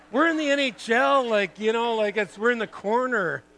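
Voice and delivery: real excited disbelief; amused disbelief. Real, not acted. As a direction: marvel at the absurd moment. Laughing disbelief at the memory.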